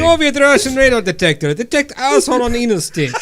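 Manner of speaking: imitating a thick Russian accent; hammed-up Russian accent repeat. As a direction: parrot the clip in mock Russian accent. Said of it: "I love that voice".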